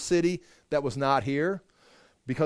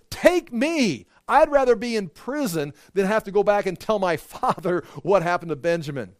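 desperate pleading; 5 semitones higher, 4 dB louder than usual. Retold or imitated. Judah offering himself.

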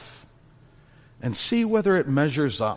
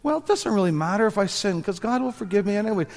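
quick, higher-pitched mock dismissiveness; careless, casual; 6 semitones higher, much faster than usual. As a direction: toss it off as a careless excuse. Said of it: "Don't be careless or casual or think".

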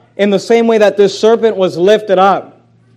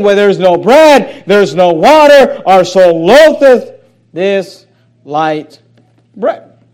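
whiny complaint; 4 dB louder, slower than usual. Retold or imitated. People complaining to God.

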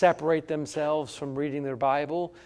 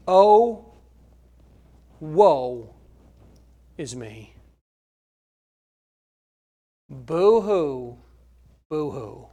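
fake crying; much slower than usual. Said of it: "you start feeling sorry for yourself".

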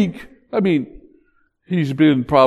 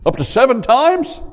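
quoting Peter; 4 semitones lower than usual. Retold or imitated. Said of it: "Peter came to him and said".

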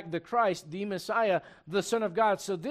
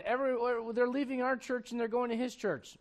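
higher-pitched mock panic; mock freaking out; 6 semitones higher than usual. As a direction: lightly imitate worried followers fretting. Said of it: "everyone's kind of freaking out".

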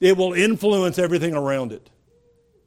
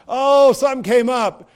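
breezy, higher, louder "Oh, something came up"; mock excuse; 5 semitones higher, 4 dB louder than usual. Preacher mimicking a friend who bails on a promise. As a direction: toss off the excuse lightly.

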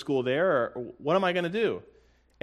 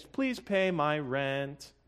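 mock wishful prayer; 4 semitones higher, slower than usual. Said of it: "You're not just singing hopeful, wishful things".

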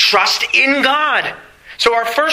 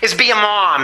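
lightly voiced daughter, higher pitch; raised pitch, mock protest; imitated protesting daughter; 5 semitones higher than usual. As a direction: mimic a daughter's exasperated question. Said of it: "and she says".

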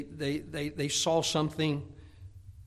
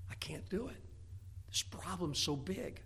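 defeated; 11 dB quieter than usual. Acted. A Christian overwhelmed by a burden, soft defeated sigh. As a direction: let the burden crush the words.

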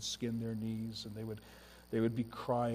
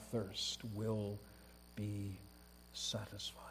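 slow, drops softer until whispered; fading to a whisper; 3 semitones lower, 9 dB quieter, slower than usual. Acted. Preacher to congregation, slowing into a hushed whisper. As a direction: let it die away to a whisper on satisfied.

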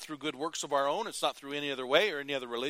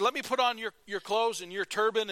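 eager friend; 7 semitones higher, 4 dB louder than usual. Retold or imitated. Friend asks for disguise.

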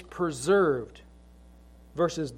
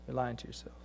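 much softer and lower, with the weight on "lying"; quiet echo; 6 semitones lower, 12 dB quieter, faster than usual. Acted. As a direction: drop to a near hush on "You're lying to yourself". Quiet echo of the same phrase.

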